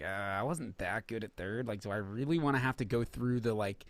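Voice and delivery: low, soft, mumbled imitation of a reluctant player; a hint of a hesitant ballplayer; mock Devers. Player admitting fear, lightly imitated low and soft.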